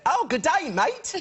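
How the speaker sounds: high, hammed-up Australian greeting; mock Australian accent. Mum answering her son's call, mock Australian accent. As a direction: pitch it up in a broad comic Aussie accent.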